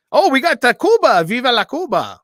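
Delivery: loud and high, cheering Viva la Cuba; excited cheer. Real, not acted. Host cheering his Cuban guest, loud and high. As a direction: shout it out like a fan.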